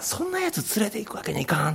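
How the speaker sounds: high, soft Kansai-ben rebuke; Kansai dialect. Retold or imitated. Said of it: "関西弁で言ったかどうか".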